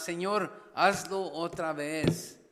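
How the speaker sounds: a slow, drawn-out plea, hazlo held long; slow pleading prayer. Acted. Preacher voicing a church's prayer, slow and pleading. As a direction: stretch hazlo out slowly, begging God.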